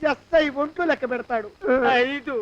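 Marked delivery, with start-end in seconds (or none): 2.0-2.3 dramatic countdown. Acted. Countdown to hanging, slow build.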